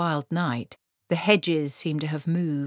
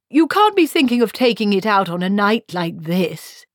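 louder, higher objection; alarmed protest; 5 semitones higher, 8 dB louder than usual. Acted. Wizard objecting to Granny taking the boat, alarmed. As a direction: protest as if it were folly.

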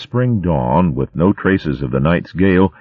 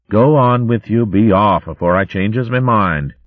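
kindly, a hint of rural burr; lightly voiced country hogwife; 5 semitones higher than usual. Teasel offering to clean up for the youngsters, kindly. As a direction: talk like a homely old hogwife.

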